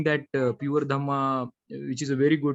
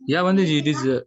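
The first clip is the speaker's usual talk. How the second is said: louder, closer to the mic; speaking louder; 6 dB louder than usual. Real, not acted. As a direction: lean in and speak up. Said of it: "get closer to the mic or speak louder".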